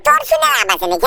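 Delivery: put-on very high, bratty child voice calling out; squeaky little brat yelling for his friend; cheeky cartoon kid. Kid calling for Doraemon, high squeaky voice.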